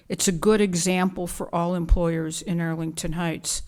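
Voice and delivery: ordinary delivery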